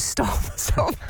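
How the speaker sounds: breathy whispered stop through a laugh. Retold or imitated. Trainer gently stopping her worried client, whispered. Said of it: "She goes".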